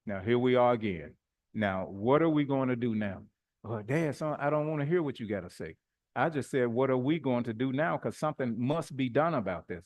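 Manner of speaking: measured, controlled firm father; firm parent. Acted. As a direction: keep it firm without raising your voice. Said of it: "I'm just firm in my voice".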